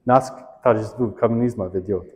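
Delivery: quiet recitation in badly accented Russian; understated anthem quote, bad Russian accent; terrible Russian accent. Real, not acted. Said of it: "badly, 'cause my accent is terrible".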